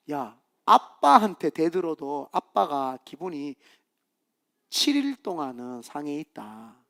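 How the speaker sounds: imitated stern God, unhurried; God speaking. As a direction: lay it down slowly like a displeased father. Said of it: "그래서 하나님이".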